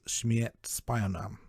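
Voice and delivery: "Schmiert Spionam" said very slowly, syllable by syllable, as if sounding out Russian; careful foreign pronunciation. Shown as a demonstration. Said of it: "I'm hoping I'm pronouncing that correctly".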